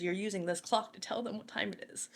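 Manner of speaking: a boss handing down a punishment calmly; quiet command. Retold or imitated. Chief's punishment order, quoted.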